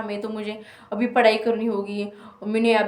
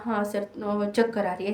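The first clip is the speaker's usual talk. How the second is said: retelling her dizzy answer, a touch softer; barely-there reply of a dizzy student; faint weak voice; 2 semitones lower, 6 dB quieter than usual. Retold or imitated. To the invigilator, a mildly faint, soft reply. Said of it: "ऐसे बोला".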